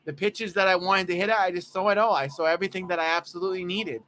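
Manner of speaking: lightly voiced gee-whiz player, running on; Jeff McNeil. Host showing how McNeil really talks, mild gee-whiz earnestness. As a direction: bubble along with earnest, aw-shucks wonder. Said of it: "He talks like".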